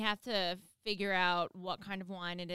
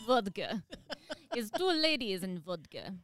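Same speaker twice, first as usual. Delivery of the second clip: giggly mock Russian accent; badly faked Russian, laughing into it. Repeating the vodka name for a doubting co-host, mock Russian accent. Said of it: "That's your Russian accent?".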